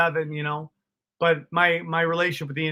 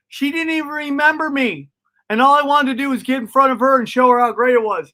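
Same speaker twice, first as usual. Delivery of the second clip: higher, louder disbelieving rant; incredulous punchline; 8 semitones higher, 5 dB louder than usual. Real, not acted. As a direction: fire off the irony fast. Punchline outrage, pitched high.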